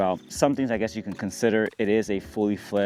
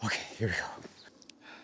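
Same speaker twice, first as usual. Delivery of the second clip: whispering; 11 dB quieter, slower than usual. Real, not acted. Settling in to start filming.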